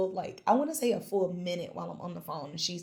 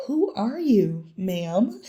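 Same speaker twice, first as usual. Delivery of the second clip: incredulous mock question; 2 semitones higher, 6 dB louder, much slower than usual. Confused caller gave no information.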